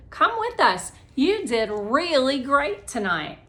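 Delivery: eager urging. Acted. Girl urging Melody along.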